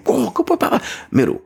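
high, excited go go go; excited dog cue. Retold or imitated. Trainer hyping his dog up, high and excited. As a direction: hype the dog up with a squeaky go go go. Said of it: "I make it more exciting".

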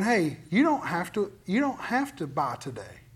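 calm them down, no rush; gently reassuring voice of God. Retold or imitated. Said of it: "And he's going".

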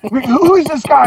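high, put-on voice sizing up a stranger; mock-menacing who-are-you; suspicious rock singer. Singer eyeing an unknown man on his tour bus, high mock-suspicious voice.

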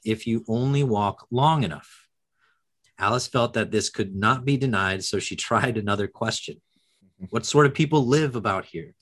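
lively storybook reading of the passage; expressive book reading with small character voices; reading aloud. Acted. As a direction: read it out to the class like a story. Teacher reads Alice passage aloud.

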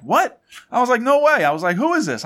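squealing high in disbelief; surprised. Retold or imitated. Telling friends how he met Dom, shocked high squeal. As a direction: jump way up in pitch, stunned.

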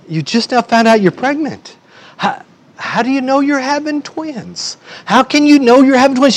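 high-pitched, incredulous questioning; baffled husband, voice pitched high; baffled disbelief. Acted. Baffled husband questions the twins claim.

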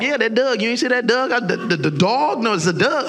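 Baltimore twang. Retold or imitated. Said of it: "certain kind of twang".

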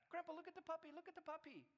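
high-pitched imitation of an excited little one; excited grandkid. Grandson calling Grandpa to see the puppy, excited. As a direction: call out to Grandpa like a thrilled child. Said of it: "he's so excited".

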